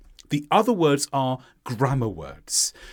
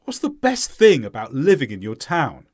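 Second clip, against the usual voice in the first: falling question tune on "town"; stressed content words; 4 dB louder than usual. Shown as a demonstration. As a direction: stress "best thing", "living", "town". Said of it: "Listen to the question, then repeat".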